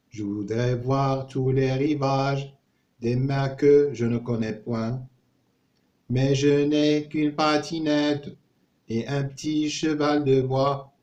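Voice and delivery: measured French diction, line by line; poem recitation. Shown as a demonstration. Teacher models a poem about travel for learners, measured recitation. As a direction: recite the verse evenly, pausing after each line.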